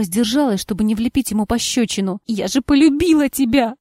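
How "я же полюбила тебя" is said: through tears. A narrator's reading. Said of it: "выдавила она сквозь слёзы".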